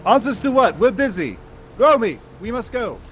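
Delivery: high, dismissive; haughty character voice. Acted. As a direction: brush him off from above.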